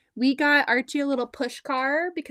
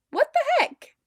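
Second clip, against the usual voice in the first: much higher, louder mock exasperation; what the heck; 7 dB louder than usual. Mom baffled her son won't ride the car, high mock outrage. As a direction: squeal it in disbelief. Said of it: "I'm like".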